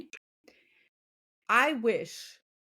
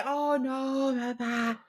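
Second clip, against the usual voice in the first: mock dismissive; 5 semitones higher, 4 dB quieter, slower than usual. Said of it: "don't just say".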